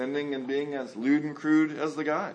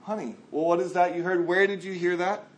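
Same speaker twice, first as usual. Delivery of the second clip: gentle parent; 2 semitones higher than usual. Retold or imitated. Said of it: "You should be willing to say".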